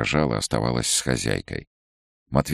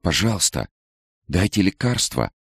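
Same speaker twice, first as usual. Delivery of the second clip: a hint of a desperate plea, higher; imploring; 7 semitones higher than usual. A narrator's reading. Nicole imploring the head doctor for medicine, mild pleading. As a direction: beg for the medicine. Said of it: "взмолилась Николь".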